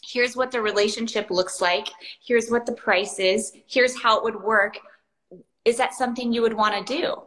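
easy, unhurried model sales voice; calm and simple. Acted. Coach modelling a discovery call close for sellers, calm and simple. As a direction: state it simply, welcome either answer. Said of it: "as calm and simple and as beautiful as that".

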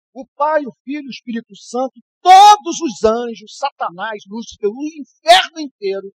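building to a preaching shout on the list; pregação em clímax. Real, not acted. (crescendo de pregador até o grito)

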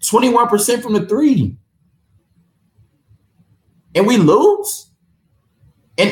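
venting real frustration over the loss; mad as hell. Real, not acted. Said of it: "I'm really mad".

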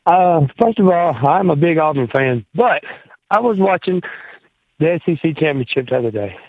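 breathless, gasping for air; talking while short of breath. Real, not acted. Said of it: "Excuse me, I'm out of breath".

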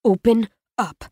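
low, patient coaxing; deep and patient. Acted. Tall boy gently coaxing the wounded boy, deep and patient. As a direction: coax him gently like a calm big brother. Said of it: "deep and patient".

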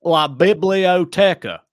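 slow, loud redneck Spanish. Acted. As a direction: labour through Spanish with a twang. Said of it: "Redneck Learning Spanish was my high school".

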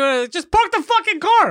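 high, slow, drawn-out exasperation; exasperated plea. Retold or imitated. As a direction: beg the driver to finally park. Exasperated at circling driver.

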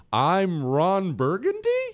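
slow, questioning rise on "I'm Ron Burgundy?"; imitating Ron Burgundy. Host imitating anchorman reading a teleprompter, questioning tone. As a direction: read it like a confused anchor. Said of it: "and he says".

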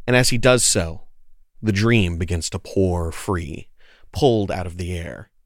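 low, measured scene-setting; story narration. Acted. Player describing Foe tapping into the dream, low measured narration.

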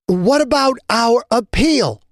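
indignant protest. Acted. Manager protests the ruling.

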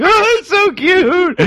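put-on high, slow cooing baby voice. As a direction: coo it like a little baby. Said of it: "I turn into a little baby".

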